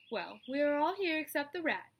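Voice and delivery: high, loud Charlotte voice; spider voice. Acted. Charlotte addresses the meeting, high and loud. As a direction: address the whole barn.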